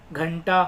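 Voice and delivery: घंटा said with a short a, as "ghanta"; the right way to say घंटा; correct pronunciation. Shown as a demonstration. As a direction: say घंटा with a plain short first vowel. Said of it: "इसको घिंटा नहीं बोल सकते".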